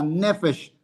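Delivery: "Nefesh" stressed on Ne, falling after; stress on first syllable. Shown as a demonstration. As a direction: put the weight on the Ne of "Nefesh". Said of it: "entonces acento acá".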